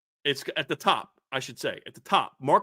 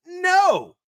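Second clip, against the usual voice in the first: a sudden high, loud "No."; one-word shouted denial; emphatic shout; 13 semitones higher, 5 dB louder than usual. Real, not acted. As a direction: bark a flat refusal straight out. Rejecting the idea, on air.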